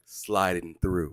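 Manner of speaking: slow, drawn-out catchphrase; regular's catchphrase. Retold or imitated. Host quoting a regular's arrival comment, slow and drawn out. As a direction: stretch it out like a signature entrance. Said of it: "it would be like".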